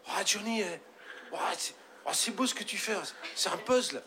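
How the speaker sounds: high, awed fan voice; starstruck fan. Acted. Young fan meeting his idol Johnny, awed and high. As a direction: gush like a trembling young fan. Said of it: "tout ému et tout tremblant".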